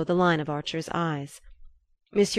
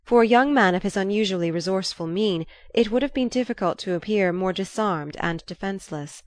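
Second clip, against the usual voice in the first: ordinary delivery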